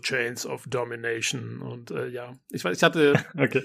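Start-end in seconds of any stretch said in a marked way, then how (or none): 0.0-1.6 low, hushed, epic movie-trailer narrator voice. Explaining to a co-host why a title amused them, in a trailer voice. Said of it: "mit so einer Trailerstimme".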